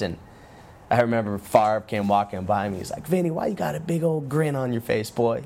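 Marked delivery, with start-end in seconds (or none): 3.1-5.4 imitating a Southern quarterback; Southern accent. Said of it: "with his southern accent".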